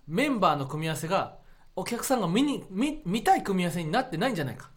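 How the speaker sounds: deliberate, emphatic speech with pauses; 車くん. Retold or imitated. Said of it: "車くんが". (熱弁の物真似)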